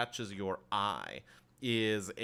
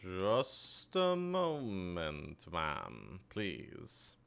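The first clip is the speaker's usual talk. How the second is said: polite attendant; 2 semitones lower, 3 dB quieter, much slower than usual. Acted.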